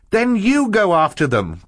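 high, loud urgent cry. A narrator's reading. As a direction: cry out the demand. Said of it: "Klaus cried".

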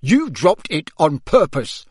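loud, forceful accusation; father's contained roar; angry roar. A narrator's reading. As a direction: accuse him crossly. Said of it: "roared Mister Weasley".

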